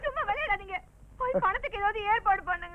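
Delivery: soft, urging voice; hushed plea. Acted. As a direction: plead with him under your breath. Wife pleads with husband for money. (தணிந்த குரலில் கெஞ்சல்)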